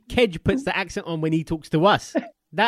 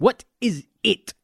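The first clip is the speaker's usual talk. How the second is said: slow insistent question; slower than usual. Real, not acted. Presses for an explanation.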